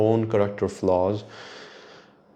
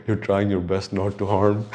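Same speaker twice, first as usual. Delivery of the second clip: mock villain. Shown as a demonstration. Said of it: "I sound like a villain now".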